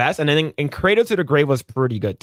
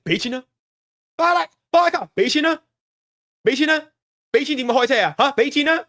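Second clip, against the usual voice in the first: movie quote; 8 semitones higher, faster than usual. Retold or imitated. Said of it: "He's like".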